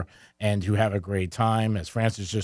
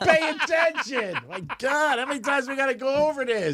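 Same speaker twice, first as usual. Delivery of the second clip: hammed-up exasperated shout; loud sharp voice; 13 semitones higher than usual. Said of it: "Why are you yelling?".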